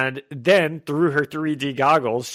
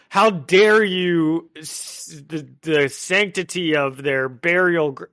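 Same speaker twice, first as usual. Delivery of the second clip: hammed-up indignation, stretched out at first; mock pearl-clutching outrage; 2 semitones higher, 3 dB louder, slower than usual. Podcaster mimicking someone shocked by graveyard dancing, mock indignant. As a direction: act scandalized, as a prim moralist would. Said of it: "clutching my pearls person that's like".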